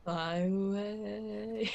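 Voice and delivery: very slow, drawn-out voice; impression of a singer. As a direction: stretch each word out slowly. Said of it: "That's my Corpse impression".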